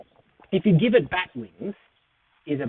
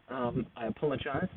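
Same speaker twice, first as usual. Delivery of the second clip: suddenly hushed; 12 dB quieter than usual. Real, not acted. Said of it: "I yelled that a bit loud".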